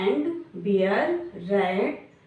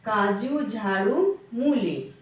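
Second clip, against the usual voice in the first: teacher reading a word list; slower than usual. Shown as a demonstration. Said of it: "हम ऐसे ही पढ़ेंगे".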